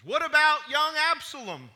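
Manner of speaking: loud, high, urgent question from the king; anxious demand. Acted. King to the messenger, demanding news of his son, loud. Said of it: "the king demanded".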